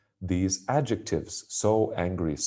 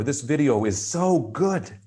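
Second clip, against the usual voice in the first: higher, eager, leaning on so; upbeat praise, so stressed; enthusiastic emphasis; 7 semitones higher, 5 dB louder than usual. Shown as a demonstration. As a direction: gush about the video. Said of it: "That is a way to emphasize".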